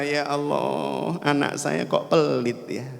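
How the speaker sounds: slow, understated lament; mildly disappointed mother. Acted. Mother laments her stingy child, slow mild disappointment. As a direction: draw it out with a touch of disappointment. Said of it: "Ibunya kecewa".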